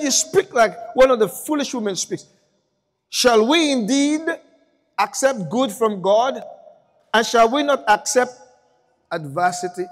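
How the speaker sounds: Job's solemn answer. Retold or imitated. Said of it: "And he said".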